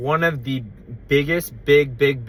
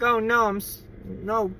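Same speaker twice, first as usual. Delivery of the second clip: put-on old lady voice; 9 semitones higher than usual. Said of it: "she was like".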